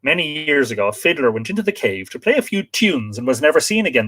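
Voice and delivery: storytelling read with lifted phrase openings; reading aloud. Acted. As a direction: read out a local legend, phrase by phrase. Reads folklore account aloud.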